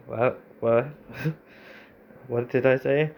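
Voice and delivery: giggling, thrown by the answer; half-laughed what, real confusion; laughing disbelief. Real, not acted. Streamer laughing at a nonsense AI reply, baffled.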